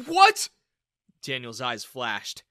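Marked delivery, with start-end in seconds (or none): 0.1-0.5 much higher, much louder stunned cry; shocked what. A narrator's reading. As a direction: disbelief bursting out. Father shocked by daughter.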